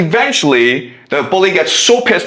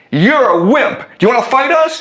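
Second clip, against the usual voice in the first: higher-pitched mock challenge; mildly taunting; 8 semitones higher, much faster than usual. Friends taunting the new kid at lunch, mildly taunting. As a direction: goad him with a rising question. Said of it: "start to curse him".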